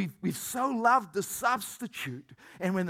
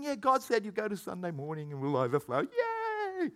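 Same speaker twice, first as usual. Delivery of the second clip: sarcastic mock cheer; 6 dB quieter than usual. Sarcastic fake cheer about church.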